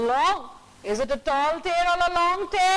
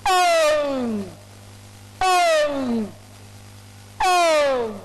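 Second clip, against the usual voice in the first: lion roar; much slower than usual. Acted. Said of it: "He roared".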